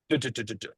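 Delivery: soft little run of "do-do-do"; playful toying sound. Retold or imitated. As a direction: toy with it softly, like a cat batting a ball. Imitates toying like a cat.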